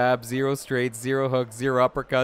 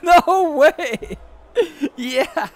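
excited celebration; 9 semitones higher, 3 dB louder than usual. Real, not acted. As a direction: celebrate like you just won. Celebrating, laughing.

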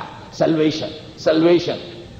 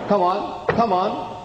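higher, impatient come on, come on; impatient urging; 5 semitones higher, slower than usual. Acted. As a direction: hurry him up, tapping with impatience. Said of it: "He started stamping his feet".

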